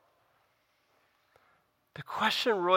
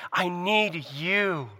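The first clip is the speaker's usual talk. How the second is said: pleading; much slower than usual. Retold or imitated. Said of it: "come crawling back to Jesus and say".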